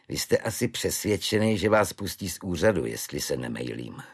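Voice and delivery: a lightly voiced calm Švejk; matter-of-fact old soldier, unhurried. Švejk calmly explains the guard's temper to the clerk, lightly voiced.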